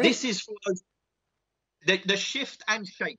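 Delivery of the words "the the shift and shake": slowed, spelled-out repeat of shift and shake. Shown as a demonstration. Repeating the move name for the confused host, slowly. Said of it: "The what, sorry?".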